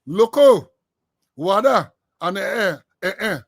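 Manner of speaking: 'Loco' called out loud, the others fading down; listing names emphatically. Shown as a demonstration. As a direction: call the first name out loud, then let the list fade. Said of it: "three type of Goldie".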